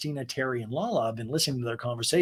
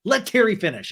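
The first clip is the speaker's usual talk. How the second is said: mock yell; 10 semitones higher, 5 dB louder than usual. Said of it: "And Ariana yells".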